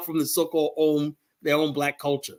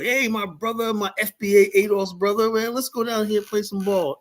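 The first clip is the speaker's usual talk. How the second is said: pitched up, hammed-up hearty hello to a stranger; mock brotherly greeting; 5 semitones higher than usual. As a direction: play the overfriendly brother, half mocking. Mocking an imagined friendly brother.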